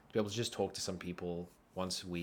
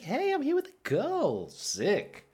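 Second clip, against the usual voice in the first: high, louder burst of excitement; mock boyish thrill; 5 dB louder, slower than usual. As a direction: play a thrilled kid showing off. Nine-year-old self thrilled to be with girl.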